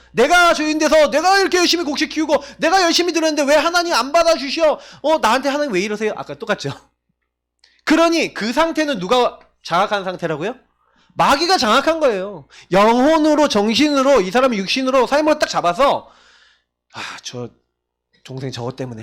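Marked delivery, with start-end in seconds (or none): 0.1-6.1 complaining Cain. Retold or imitated. Voicing Cain's complaint to God. 16.9-19.0 resentful grumble. Retold or imitated. Cain's muttered resentment.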